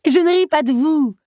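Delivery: high, loud protest out of giggles; laughing protest. A narrator's reading. Belle defending herself to the beast, protesting while amused. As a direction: defend yourself through the laughter. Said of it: "se défendit-elle".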